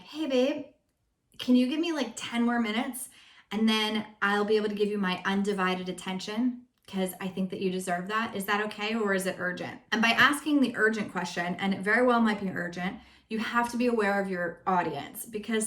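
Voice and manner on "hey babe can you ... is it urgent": gentle request. Shown as a demonstration. Asking husband nicely for ten more minutes, sweetly. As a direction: ask kindly for more time. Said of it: "now what I do is".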